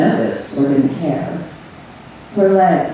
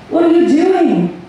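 high, urgent cry; restrained scream of alarm; narrated scream; 11 semitones higher than usual. A narrator's reading. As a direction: cry it out high at only modest volume. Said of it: "she screamed".

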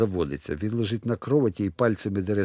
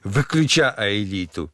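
sleepy rasp; 2 semitones lower, slower than usual. Acted. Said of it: "хрипить сонним голосом".

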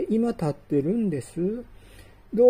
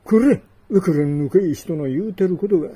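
raised scolding voice; loud scolding; 4 dB louder, faster than usual. Acted. Customer loses patience with the dealer, loud scolding. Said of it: "大きな声で言われると".

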